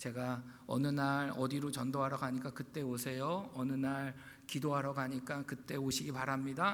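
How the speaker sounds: put-on quiet, calm, even standard Seoul accent. Recalling making church announcements in Busan, in a calm Seoul accent. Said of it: "이렇게 이제 차분하게 서울 말로 톤으로 이제 했어요".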